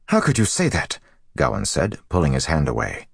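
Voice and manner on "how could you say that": high-pitched, indignant challenge; appalled young man's retort; outraged. A narrator's reading. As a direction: recoil in angry disbelief. Gawain outraged at Bryn's praise.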